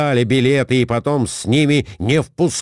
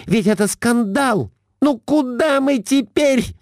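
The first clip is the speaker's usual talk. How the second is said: high, shrill scolding wife; Глафира scolding; 9 semitones higher than usual. A narrator's reading. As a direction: pounce on the husband, up high. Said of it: "Набросилась Глафира Семёновна на мужа". (высокая сварливая отповедь мужу)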